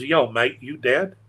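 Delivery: jokey Australian phone-caller voice; Australian accent. Retold or imitated. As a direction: put on your best Australian accent, voice lifted. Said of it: "that's my best Australian accent".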